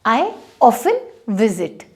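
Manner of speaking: slow, clear I often visit with a silent T; slow teaching read; slow example. Shown as a demonstration. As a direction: read the example slowly for learners. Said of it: "अगर ऐसे बोलना है".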